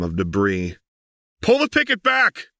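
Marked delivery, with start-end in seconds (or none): 1.4-2.5 high, loud shout over roaring engines; an urgent command hurled above the din. A narrator's reading. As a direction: bellow the order over the engine noise. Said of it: "Lux shouted over the howl".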